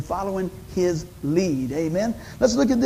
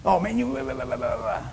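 mock boss rant; 5 dB quieter than usual. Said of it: "a boss wants to rule by fear".

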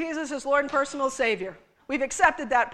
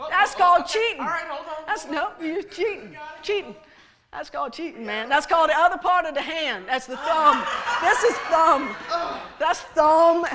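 laughing accusation; 2 semitones higher than usual. Real, not acted. Laughing at volunteer cheating.

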